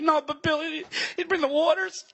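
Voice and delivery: hammed-up tearful gush; mock choked up. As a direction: pretend to well up. Mock emotional reply.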